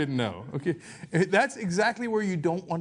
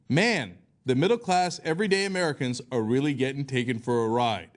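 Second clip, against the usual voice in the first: Palin voice; 5 semitones lower than usual. Retold or imitated. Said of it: "let me not do the Palin voice".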